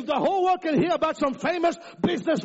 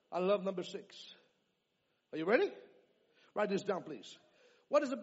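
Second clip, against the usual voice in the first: much softer, lower, drawing them in; quiet teaching; 4 semitones lower, 10 dB quieter than usual. Real, not acted. Pastor hushing the church before a point, quietly. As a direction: lean in and hush the room.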